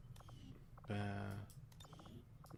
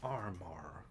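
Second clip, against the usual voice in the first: whisper; 4 semitones lower, 4 dB quieter than usual. Real, not acted. Reading armor item quietly.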